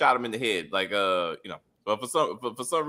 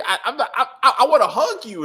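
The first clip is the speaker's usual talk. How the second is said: laughing through it; 8 semitones higher, 7 dB louder than usual. Retold or imitated. Own imagined reply, laughing.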